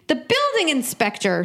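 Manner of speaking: BUILDING pitched high, then falling; disbelieving echo, high on BUILDING; incredulous repeat. Real, not acted. Questioning who has the power, incredulous on BUILDING.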